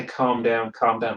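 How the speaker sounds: lightly put-on Scouse, low; a low-key try at a Scouse catchphrase; Scouse accent. Guessing at the Geordie accent, mild mock Scouse. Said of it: "but that's Scouse".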